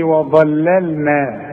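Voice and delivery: وظللنا slow with the لام kept thin; light lams. Shown as a demonstration. Teacher asking for light lams in the reading. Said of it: "رقق لي اللامات دي".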